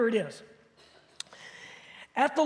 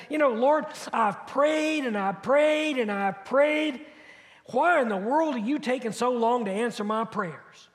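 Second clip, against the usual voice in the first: frustrated prayer. Acted. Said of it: "Maybe you've said".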